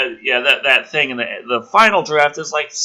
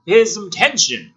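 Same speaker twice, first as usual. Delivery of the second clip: mock gasp; 7 semitones higher, 4 dB louder than usual. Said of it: "it's like".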